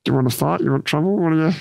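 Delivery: fast, high, aggressive challenge. Retold or imitated. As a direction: fire the questions at him, spoiling for a fight. Detective aggressively challenging Sam.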